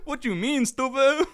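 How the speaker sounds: high-pitched retort breaking into laughter; mock indignant. Customer back at new barista, high mock indignation. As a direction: squeal it in comic disbelief.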